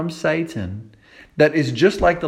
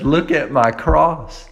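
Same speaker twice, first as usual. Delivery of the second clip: Jesus to the guilty sinner, earnest; Jesus speaking; 3 semitones higher than usual. Acted. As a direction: speak with pleading love from the cross. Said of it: "Jesus comes and he says".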